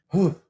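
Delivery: sharp, high "whew" after a sigh; relieved exhale. Retold or imitated. Coming back to earth after a calming hug, relieved exhale. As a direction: let out a big acted breath of recovery.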